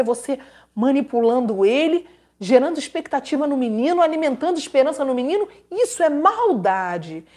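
normal talking voice

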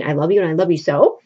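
fast, dismissive parroting of his line; mocking imitation. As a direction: rattle off his words to mock him. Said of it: "You just keep saying".

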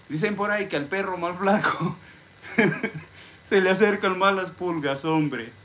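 high-pitched mock folk wisdom; jokey proverb voice. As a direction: recite the saying high and jokingly, chuckling midway. Jokingly recites a garbled saying.

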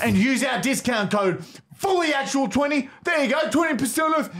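high, hectoring ad yell; shouted sales pitch. Acted. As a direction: push the discount in a heated holler.

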